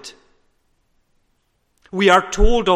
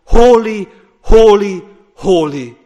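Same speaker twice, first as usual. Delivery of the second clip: much louder, full-throated cry; angels crying holy; 3 semitones higher, 10 dB louder than usual. Acted. Preacher voicing the angels' cry in heaven, much louder. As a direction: proclaim it at full force as the angels. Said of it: "They are crying around the heavenly throne room".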